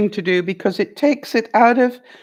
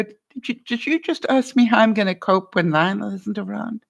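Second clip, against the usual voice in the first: sincere, near tears. Shown as a demonstration. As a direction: ask gently, as if moved to tears. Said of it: "I've got tears even thinking about it".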